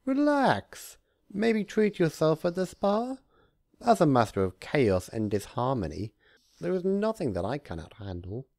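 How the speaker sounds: hammed-up high cheer; cheerful Discord. A narrator's reading. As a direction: shoo her off brightly.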